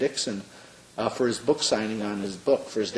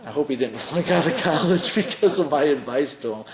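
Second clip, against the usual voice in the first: chuckling through the words, a bit louder; laughing; 4 semitones higher, 4 dB louder than usual. Real, not acted. Telling the interviewer about the student, laughing. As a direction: laugh at your own advice as you tell it.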